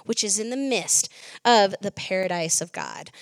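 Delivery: measured, solemn Bible reading; scripture reading. Acted. Reading Revelation chapter two to the church, solemnly. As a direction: read the passage with weight.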